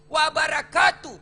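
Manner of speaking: Warahmatullahi said slow and loud; emphatic warahmatullahi. Shown as a demonstration. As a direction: stress each syllable of Warahmatullahi. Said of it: "Tiga isi dalam doa".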